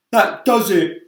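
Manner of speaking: high loud doom-laden earthworm; earthworm cry. Acted. Earthworm giving up hope, high loud cry. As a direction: cry it in despair. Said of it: "cried the earthworm".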